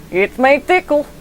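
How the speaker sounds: high, slow playful tease; sly master teasing his student; teasing character voice. Pretend.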